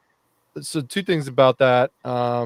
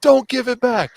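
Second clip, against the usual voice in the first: mock commenters; 9 semitones higher than usual. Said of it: "all the comments were like".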